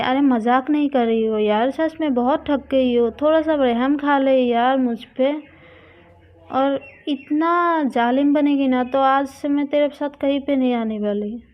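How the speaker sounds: loud mock pleading. The speaker begging Priya for mercy, loud mock whine. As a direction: beg for mercy, hamming it up. Tired friend pleading dramatically.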